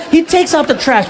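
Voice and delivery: ordinary talk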